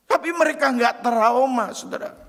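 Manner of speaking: high, loud pulpit proclamation; full-force preaching. Acted. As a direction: preach it out to the whole hall. (khotbah berapi-api dengan suara tinggi dan keras)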